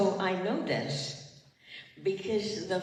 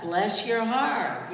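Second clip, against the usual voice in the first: slow blessing; 2 semitones higher, 4 dB louder, slower than usual. Shown as a demonstration. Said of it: "I want you to say what?".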